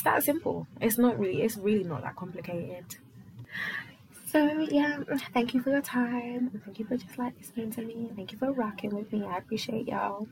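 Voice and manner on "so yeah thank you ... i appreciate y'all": lightly put-on American accent, a little higher. Shown as a demonstration. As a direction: try out an American accent on a thank-you sign-off. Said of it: "How's my American accent?".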